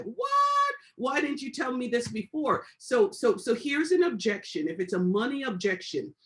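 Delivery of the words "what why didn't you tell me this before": shocked what. Retold or imitated. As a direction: act out a prospect's jaw-dropping surprise. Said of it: "They're like".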